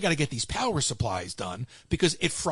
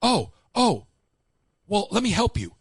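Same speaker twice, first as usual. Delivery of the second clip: mock sheepish coworker; 5 semitones higher, 4 dB louder than usual. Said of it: "he goes".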